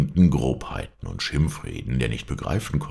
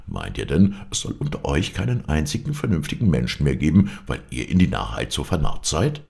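mildly angry, with punched accusing words; a touch of irate scolding; exasperated rebuke. Acted. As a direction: tell the fools off. Diogenes berates his foolish townsmen.

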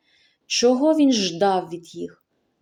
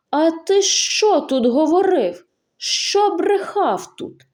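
put-on high, slow, accusing old man; angry accusation; 7 semitones higher, slower than usual. Grandfather to the stranger, slow high-pitched accusing. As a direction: drag the lie out of him.

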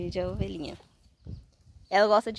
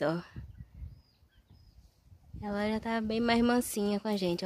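normal talking voice

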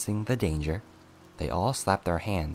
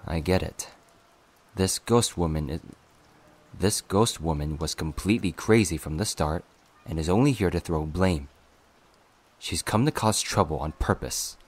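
louder, grumbling dismissal; grumbly; 4 dB louder than usual. Acted. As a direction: grumble it out, fed up. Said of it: "concluded grumbly".

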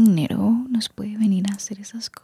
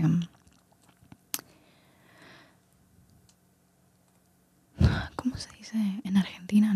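ASMR whisper. Real, not acted. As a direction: whisper close to the mic, relaxing the listener. Susurro ASMR todo el video. (susurro ASMR suave)

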